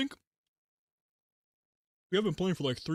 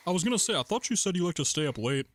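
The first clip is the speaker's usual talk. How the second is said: talking through a mouthful of food; mouth full. Real, not acted. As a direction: speak around a bite of food. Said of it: "trying not to talk with my mouth full".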